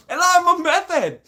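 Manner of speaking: very high, loud mock-crazed squeal; mock manic addict. Mocking the accusation of being an addict, manic squeal. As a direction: squeal it like a hammed-up maniac. Mock meth head outburst.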